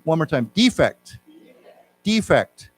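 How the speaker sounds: defect stressed on the first syllable, DE-fect; noun stress. Shown as a demonstration. Teacher leading the class in the noun form, first syllable stressed. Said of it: "Let's say it one more time".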